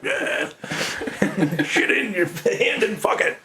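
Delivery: mock punk singer, laughing through it; crude punk singer. Imitating the crude singer while talking about the band, with a laugh. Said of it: "the singer has, like, a shirt of another punk singer on".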